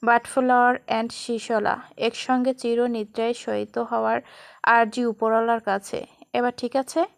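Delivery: unhurried loving vow; gentle. Acted. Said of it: "মৃদু স্বরে বলে".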